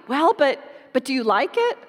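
a small daughter begging her dad; eager little girl. Retold or imitated. Little daughter voiced in story.

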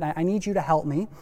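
ordinary talk

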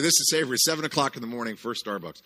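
lightly hammed-up scene-setting; mock announcing. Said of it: "let me do Savory".

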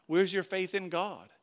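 slow, high-pitched jeering question; mocking taunt. Coworkers taunt him about God, mocking. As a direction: draw it out to needle him. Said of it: "they start making fun of me".

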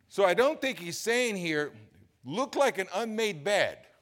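high, loud preacher's cry; impassioned sermon delivery; full-force preaching. Real, not acted. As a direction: hammer it home from the pulpit.

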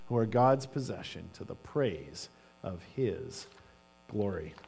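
measured, solemn Bible reading; scripture reading. Acted. Pastor reading Ephesians to the congregation, solemnly. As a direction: read the verses with reverent weight. Reads scripture passage aloud.

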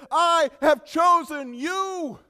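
high, slow, full-voiced proclamation; triumphant shout. God declaring to those he caught, triumphant shout. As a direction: shout each word as the climax.

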